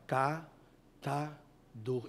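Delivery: drawn out very slowly, syllable by syllable. Shown as a demonstration. Preacher coaching a girl to repeat a word slowly. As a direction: stretch every sound of "Catador" as slowly as you can. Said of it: "Não, fala devagar".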